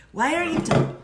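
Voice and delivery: lightly put-on Upper Midwest vowels; playful Michigan impression; mock Michigan accent. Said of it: "That's not Michigan".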